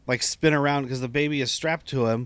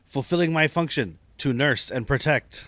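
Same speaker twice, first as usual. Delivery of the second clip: droid voice. Retold or imitated. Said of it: "doing a droid voice".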